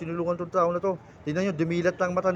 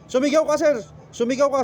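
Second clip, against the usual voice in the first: much higher, much louder, urgent command; 6 semitones higher, 5 dB louder than usual. Real, not acted. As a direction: order him to shout, pushing hard. Healer commands patient to shout.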